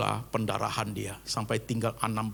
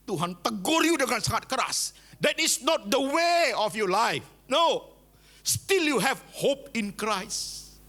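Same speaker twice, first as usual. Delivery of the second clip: rising rebuke; 11 semitones higher, slower than usual. Real, not acted. Preacher rebukes congregation.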